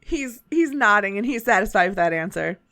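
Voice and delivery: put-on a light Southern shopkeeper accent. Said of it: "It just continues to go Southern".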